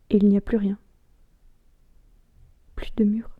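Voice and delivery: subdued, halting recital growing firmer; theatrical soliloquy, hushed then resolute; dramatic monologue. Acted.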